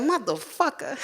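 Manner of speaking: laughing. Retold or imitated. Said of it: "And then she started laughing".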